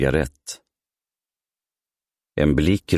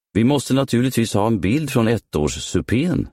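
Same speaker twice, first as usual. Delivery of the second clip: bright sudden exclamation, pitched higher; lit-up higher exclamation; exclaimed; 7 semitones higher than usual. A narrator's reading. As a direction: burst out with a sudden idea. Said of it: "utbrast han".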